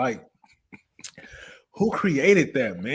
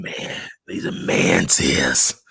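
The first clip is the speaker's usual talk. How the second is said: tearful; 12 semitones lower, slower than usual. Real, not acted. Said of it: "He's sniffling".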